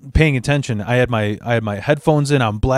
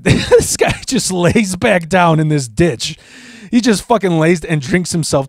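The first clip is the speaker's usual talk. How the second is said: laughing; 3 semitones higher than usual. Real, not acted. Storyteller laughs at the ending.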